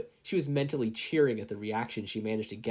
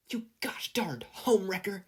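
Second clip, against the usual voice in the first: Mei yelling; 10 semitones higher than usual. A narrator's reading. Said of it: "Mei yelled".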